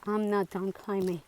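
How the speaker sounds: breathless, panting words; out of breath. Real, not acted. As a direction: speak between gasps for air. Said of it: "Sorry, I am out of breath".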